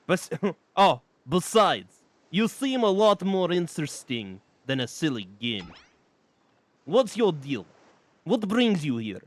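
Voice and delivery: lightly voiced laid-back stoner; easygoing and unbothered, a stoner drifting along; stoner vibe. The spirit chats up the player, a hint of a stoner. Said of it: "kind of like a stoner vibe".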